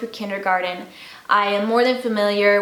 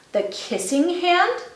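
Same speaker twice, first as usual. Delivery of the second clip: put-on curious child voice; 8 semitones higher than usual. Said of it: "asked Chester".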